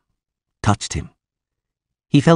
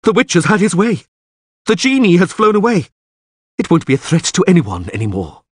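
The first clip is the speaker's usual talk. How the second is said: excited calling; 9 semitones higher, 4 dB louder than usual. A narrator's reading. Krep still calling out.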